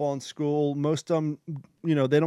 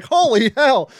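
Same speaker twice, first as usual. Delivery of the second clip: shocked exclamation; 8 semitones higher, 9 dB louder, slower than usual. Retold or imitated. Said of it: "it was completely like".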